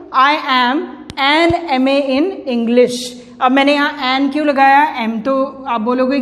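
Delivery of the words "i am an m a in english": very slow sentence, word by word; teacher dictating an example sentence slowly to the class; slow dictation. Shown as a demonstration. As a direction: read it out slowly as if writing it on the board. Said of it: "जैसे मैं लिखूं".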